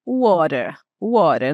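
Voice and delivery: Irish "water" with a firm T and a rolled R; Irish English; Irish accent. Shown as a demonstration. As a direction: say "water" the Irish way, strong T, curled R. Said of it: "O T é forte e o R é enrolado".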